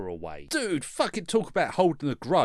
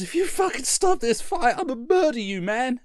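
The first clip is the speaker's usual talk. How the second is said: angry threat; 7 semitones higher than usual. Retold or imitated. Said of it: "they both say".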